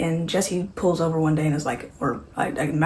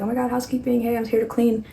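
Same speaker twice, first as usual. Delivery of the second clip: chirpy housekeeper; 6 semitones higher, faster than usual. Retold or imitated. Housekeeper announces herself on entering.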